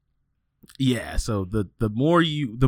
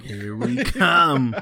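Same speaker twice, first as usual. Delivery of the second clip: mock drawl; 2 semitones higher, 4 dB louder, much slower than usual. Echoing lady boys joke.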